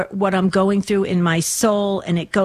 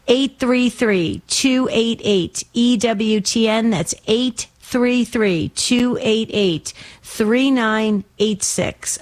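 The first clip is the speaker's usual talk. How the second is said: slow number read; slower than usual. Real, not acted. Host reads call-in number.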